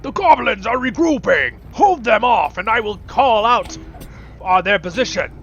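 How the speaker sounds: a hint of a Christmas elf calling orders. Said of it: "The elf voice".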